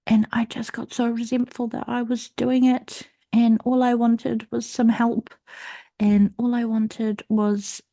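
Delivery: upset. Real, not acted. Resentment building up.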